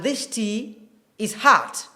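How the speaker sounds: American "hot" drawn open to "haht"; slow General American demo of "hot"; American accent. Shown as a demonstration. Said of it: "typical American accent".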